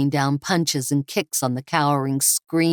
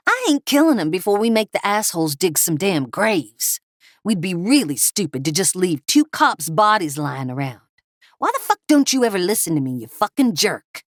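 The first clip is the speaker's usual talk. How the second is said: angry thug; 4 semitones higher than usual. Acted. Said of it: "Cliff snapped".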